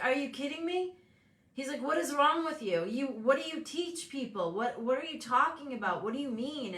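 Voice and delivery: challenging his mom, lightly mock-scolding; incredulous son. Son scolding his mom for thinking small, incredulous. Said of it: "And he's like".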